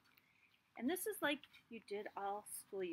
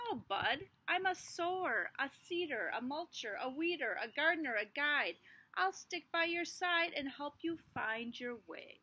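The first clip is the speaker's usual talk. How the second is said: louder, cheerful worm; friendly worm; 3 semitones higher, 4 dB louder than usual. Acted. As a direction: reassure the little seed. Worm introduces itself.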